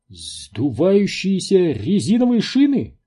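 high-pitched incredulous squeak; squeaked question. A narrator's reading. Энди questions the driver about tyres, squeaking. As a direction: squeak it in disbelief. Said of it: "пискнул Энди".

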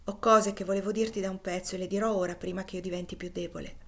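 quick, decided, getting it out at once; fast and resolute before strength fails; sudden resolve. Acted. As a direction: resolute rush. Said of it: "con una risoluzione subitanea".

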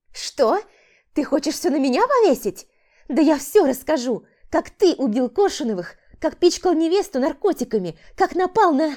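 hysterical woman. A narrator's reading. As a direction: threaten to expose him. Woman threatens to tell. (истерическая угроза)

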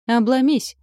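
high, loud defiant snap; bare your teeth and snap back; snarled retort. A narrator's reading. Heroine snaps back at the monster reaching for her, loud and defiant. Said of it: "оскалилась и отскочила".

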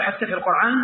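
"القرآن" said with an ayn inside; hamza as ayn. Retold or imitated. Neighbour questioning the reciter, "القرآن" with ayn for hamza. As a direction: ask it with "القرآن" pronounced as qur'an with ayn. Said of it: "يقلبون الهمزة عينا".

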